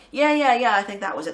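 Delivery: gushing metalhead recognition; mock excited fans. Sarajevo metalheads hearing the rumour, mock excited.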